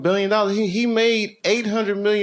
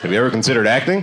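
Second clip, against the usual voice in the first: quick laughing lower casting pitch; mock casting director; 7 semitones lower, much faster than usual. Casting director asking a local, quick and laughing. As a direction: ask it fast through a laugh.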